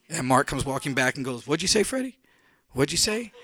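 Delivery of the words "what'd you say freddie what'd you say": higher, teasing, rising question; mocking reply. Mark mocking Freddie's yell, higher and teasing. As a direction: toss it back lightly.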